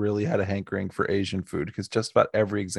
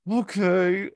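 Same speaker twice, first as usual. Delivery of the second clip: squeaky reluctant okay; 11 semitones higher than usual. Retold or imitated. Reluctantly accepting the role.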